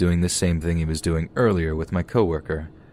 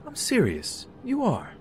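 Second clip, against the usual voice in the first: creepy man voice. Retold or imitated.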